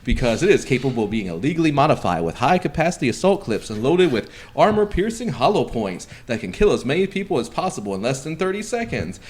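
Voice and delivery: upbeat sales pitch read; infomercial voice. Retold or imitated. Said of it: "I read like an infomercial".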